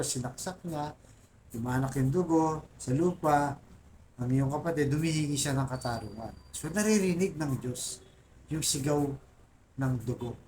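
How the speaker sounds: usual speaking voice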